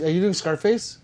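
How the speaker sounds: rising, amused question; delighted rising question; surprised question. Real, not acted. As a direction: ask it with a lift of surprise. Asks chat twice, different tunes.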